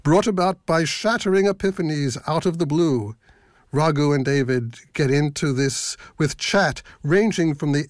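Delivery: lightly mock-grand blurb reading; tongue-in-cheek lofty promo; self-mocking profundity. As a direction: read the blurb as if it were profound. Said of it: "sort of self-mocking profundity".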